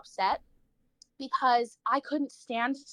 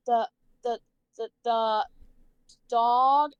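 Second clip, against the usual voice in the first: lightly imitated halting stutter, last word louder; stuttering classmate; 4 dB louder, slower than usual. Mimicking classmates stuttering through reading, halting. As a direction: stumble on the word then push it out. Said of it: "They're like".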